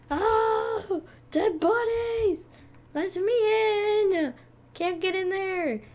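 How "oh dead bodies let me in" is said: scared whimper. Real, not acted. Scared in haunted mansion.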